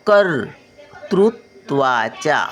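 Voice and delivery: कर्तृत्वाच्या slowly split into syllables; slow syllable reading. Shown as a demonstration. Grandmother sounding out कर्तृत्वाच्या for children. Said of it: "word then slow repeat".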